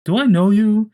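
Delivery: high, puzzled question; puzzled not recognizing. Retold or imitated. A stranger squinting at Peter, puzzled. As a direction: ask as if meeting a stranger.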